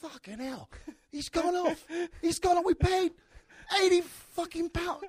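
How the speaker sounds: high, loud British outrage; British football fan shocked his star left; British accent. Retold or imitated. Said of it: "very good English accent".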